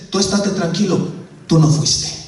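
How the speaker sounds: lightly voiced reassuring conscience; a touch of calming inner voice; defending inner voice. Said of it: "se levanta y te defiende y te dice".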